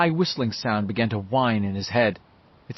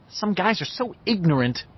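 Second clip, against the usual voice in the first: raised pitch, a touch exasperated; mildly scornful; 7 semitones higher than usual. A narrator's reading. Bev dismissing Richie's question, mildly scornful. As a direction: sigh at their cluelessness.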